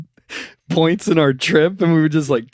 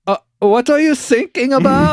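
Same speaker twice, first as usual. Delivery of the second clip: higher, louder, clueless mock question; coast guard operator; 13 semitones higher, 5 dB louder than usual. German operator mishearing the sailors, higher mock voice. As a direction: ask it blankly, mishearing sinking. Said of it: "And he goes".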